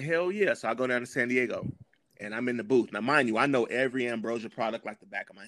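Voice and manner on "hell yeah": thrilled yes. Retold or imitated. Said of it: "like a kid when he saw Mickey Mouse".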